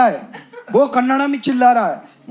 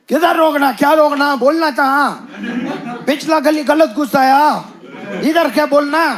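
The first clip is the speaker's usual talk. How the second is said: mock angry auto driver; 5 semitones higher than usual. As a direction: rant back like the irritated auto driver. Auto driver yelling back in accent.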